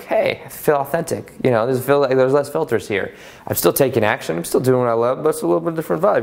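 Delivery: relaxed, easygoing take on his new self; laid-back, unhurried, a touch of calm; chill. Retold or imitated. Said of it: "I'm a little more chill".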